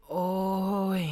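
drawn-out pained groan from nowhere; a ghostly moan of pain; ครางโอยด้วยความเจ็บปวด. Acted. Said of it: "เสียงร้องโอย ซึ่งเป็นเสียงที่แสดงความเจ็บปวด".

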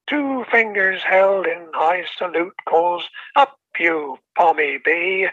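measured rhyming recital with a storyteller's lilt; poem recitation. Acted. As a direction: read it like a proud old bard sharing his verse. Mike recites his poem.

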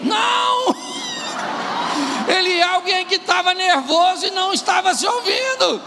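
high-pitched, forceful preaching shout; emphatic shouted correction. Real, not acted. Preacher corrects the audience's verdict on the husband, emphatic shout. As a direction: cry it out to correct them.

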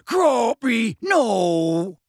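high alarmed call, falling; Hagrid crying out. Acted. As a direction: shout a warning to stop. Alarm as giant grabs at girl.

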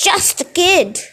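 high falsetto mimicry, jeering; mocking falsetto. Gabe mocking his friend Eddie in falsetto. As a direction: squeak the words back in a sneering falsetto. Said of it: "mimicked in a falsetto voice".

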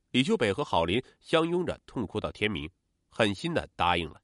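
ordinary delivery

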